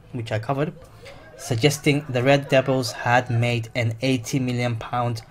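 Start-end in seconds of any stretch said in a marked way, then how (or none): 1.4-5.2 talking through hiccups; words broken by hiccups; hiccuping. Real, not acted. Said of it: "sorry, I'm just hiccuping".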